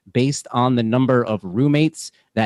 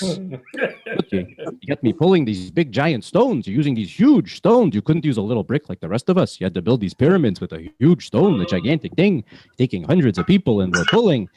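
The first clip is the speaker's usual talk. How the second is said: put-on old Jewish man accent, haggling; Yiddish-flavored accent, coaxing. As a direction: schmooze the taskmaster like an old Jewish grandpa. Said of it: "hearing my Jewish accent".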